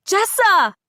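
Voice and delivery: loud, high call of the name; crying out. A narrator's reading. Dina crying the sister's name to reach Adira. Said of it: "Dina yells again".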